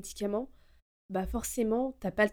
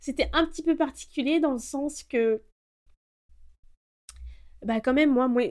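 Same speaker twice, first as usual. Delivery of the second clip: tearful, voice pitched up, near crying; 5 semitones higher, 4 dB louder than usual. Recalling a hard time in the past, emotional, close to tears. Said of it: "je vais être un petit peu émotionnel".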